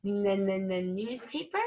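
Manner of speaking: "N, n, n, newspaper" with the N bounced before the word; repeated first sound. Shown as a demonstration. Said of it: "start with the n sound".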